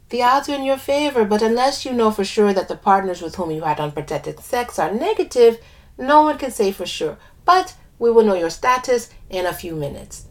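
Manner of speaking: put-on lilting West Indian accent. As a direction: speak with a light West Indian lilt. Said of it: "I do an accent for one of the characters".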